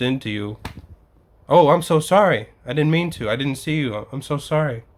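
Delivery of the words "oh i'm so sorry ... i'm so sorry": over-apologize sweetly; apologetic American. Retold or imitated. Imitating how an American would apologize, gushing sorry. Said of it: "more of an American way".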